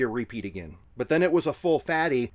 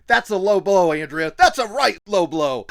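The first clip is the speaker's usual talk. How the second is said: mock British; 4 semitones higher, 6 dB louder than usual. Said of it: "And he goes".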